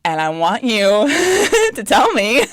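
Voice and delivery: mock telling-off broken up by laughs; laughing confrontation. Telling a friend they have an attitude, laughing confrontation. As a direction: act out calling someone out, cracking up.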